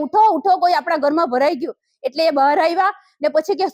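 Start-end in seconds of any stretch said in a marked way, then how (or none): 0.1-1.8 retold call. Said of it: "હસબન્ડને બૂમ પાડી કે".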